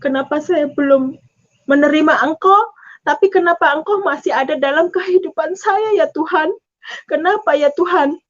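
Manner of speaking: plaintive retold prayer; mildly tearful lament; tearful questioning. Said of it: "saya menangis".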